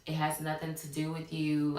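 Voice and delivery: low, measured excuse; retold smooth-talking, gently placating; finessing. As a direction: let them down easy, keeping it calm. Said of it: "I'm finessing".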